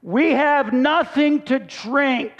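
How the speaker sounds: slow, drawn-out mock complaint; mock grumbling. Thirsty Israelites complaining to Moses in the desert, mock grumbling. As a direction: grumble it slowly, imitating a thirsty crowd. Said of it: "they begin to grumble against Moses".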